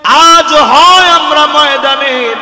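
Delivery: rally the army before the fight; Khalid's battle speech. Retold or imitated. Khalid bin Walid vowing to his soldiers, chanting then shouting. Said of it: "Khalid বিন ওয়ালিদ বক্তব্য দিলেন".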